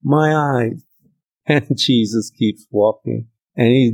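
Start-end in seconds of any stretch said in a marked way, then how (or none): 0.0-0.8 pleading call, higher and slow. Retold or imitated. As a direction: cry out to him from the roadside. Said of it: "These blind men began to yell".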